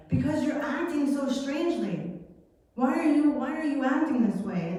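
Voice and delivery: lightly voiced irritated rider; annoyed Balaam. Balaam answers donkey.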